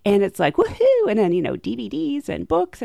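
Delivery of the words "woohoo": mock cheer. Cheering imagined sales.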